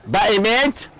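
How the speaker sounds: mildly surprised, stretching the words; drawn-out demonstration of surprise; astonishment. Shown as a demonstration. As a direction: question it, then draw out the amazement. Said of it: "ايوه هيك باستغراب".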